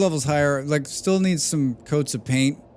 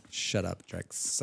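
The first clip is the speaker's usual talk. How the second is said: imitating Molly; 5 semitones lower, 10 dB quieter, much slower than usual. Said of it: "that's the way she talks".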